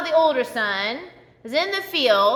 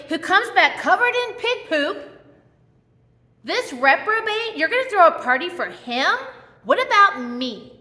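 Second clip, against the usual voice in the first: put-on resentful older brother. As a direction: vent years of unfair treatment. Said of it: "he's like".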